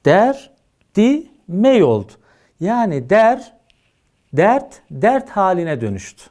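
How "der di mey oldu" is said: "der, di, mey" broken into syllables; slow syllable-by-syllable reading; syllabified. Shown as a demonstration. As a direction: split "derdi mey" into separate syllables. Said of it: "hecelediğimiz zaman".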